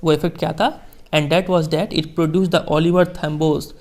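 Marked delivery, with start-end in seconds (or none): 1.1-3.7 slow, measured reading of a famous speech; formal speech reading. Acted. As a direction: read each phrase slowly, like quoting a statesman. Teacher reads Mandela speech slowly. (धीमा, गंभीर भाषण पाठ)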